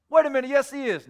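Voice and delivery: high, loud mock objection; imitated flustered comeback; indignant protest. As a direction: object loudly, taken aback. Acted protest in argument.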